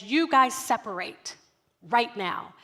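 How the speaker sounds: imitating a teacher's firm command; stern teacher order. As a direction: order the kids apart, firmly. Teacher ordering children apart.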